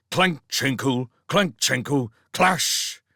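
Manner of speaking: jangling metallic sound words; clanking chain imitation. A narrator's reading.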